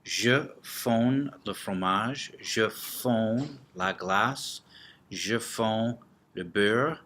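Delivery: slow, clear teacher model sentences. Shown as a demonstration. French teacher slowly modelling sentences for the class. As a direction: stretch each French example out slowly. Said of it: "For example".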